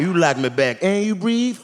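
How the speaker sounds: a desperate single man lowering his bar; mock eager. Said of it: "I'm like".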